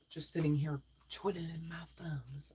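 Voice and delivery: soft, voiceless murmur; whispered aside. Real, not acted. Reader filling time during the chat, whispering. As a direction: tuck it away under your breath. Aside while viewers type.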